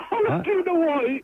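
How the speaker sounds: words squeezed out through laughter; laughing hard. Real, not acted. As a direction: barely get it out while laughing.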